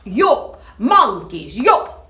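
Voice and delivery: peddler calling up. Acted. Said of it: "he spoke to them".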